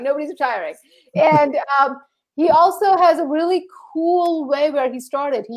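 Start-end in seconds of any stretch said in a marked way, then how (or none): 0.0-0.7 softer, muttered repeat; quiet. Real, not acted. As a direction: say it again under your breath.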